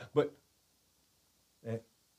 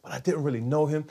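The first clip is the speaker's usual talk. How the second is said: hushed inner thought; 6 dB quieter than usual. Retold or imitated. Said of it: "I was like".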